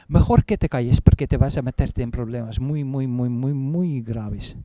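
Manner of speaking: lightly stern Spanish cop; stern Spanish warning. Retold or imitated. Female officer warning the prisoner, a touch stern. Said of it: "that sounded quite alarming".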